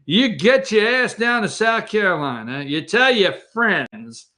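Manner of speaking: high, bossy mock Pelosi voice; mock Pelosi ordering. Host imitating Pelosi ordering Clyburn down south, high and bossy. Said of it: "And she says".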